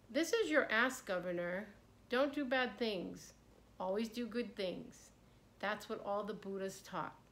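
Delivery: steady, even wise monk; calm monk calling down. Acted. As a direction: call down gently but clearly. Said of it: "the monk called down from the tree".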